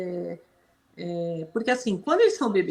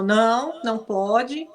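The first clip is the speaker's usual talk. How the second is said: firm scolding of a barking dog; suara tegas; slower than usual. Shown as a demonstration. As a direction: tell the dog no, mildly stern. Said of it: "entoação de voz brava".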